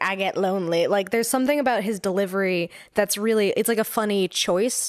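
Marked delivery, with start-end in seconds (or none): 0.0-0.9 put-on southern drawl with upspeak, slower. Describing a character's dramatic delivery, quoting him in southern drawl with upspeak. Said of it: "sort of southern mixed with like a bit of like an upspeak".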